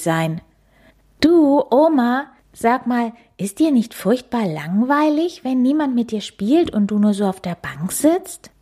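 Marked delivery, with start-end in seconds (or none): 1.2-8.5 put-on high child voice. Cub asks grandma.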